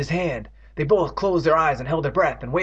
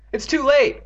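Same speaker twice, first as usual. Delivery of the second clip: shriek; 13 semitones higher, 6 dB louder than usual. Acted. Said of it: "Andy shrieked".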